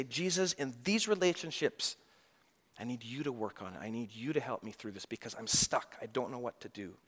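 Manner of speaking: soft, pleading prayer to Jesus; a hushed plea for help; praying quietly to Jesus, stuck and asking for help. Pretend.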